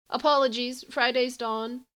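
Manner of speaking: frightened and crackly; distressed. A narrator's reading.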